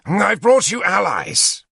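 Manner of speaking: proud and delighted; happy. Acted. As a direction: Lancelot pleased with himself. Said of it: "Lancelot said happily".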